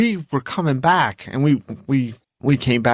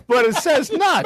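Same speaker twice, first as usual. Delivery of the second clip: laughing disbelief; 13 semitones higher than usual. Real, not acted. Mocking the nut recall.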